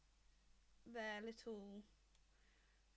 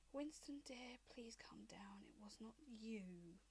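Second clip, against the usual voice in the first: lightly voiced dragon mother; 6 dB quieter than usual.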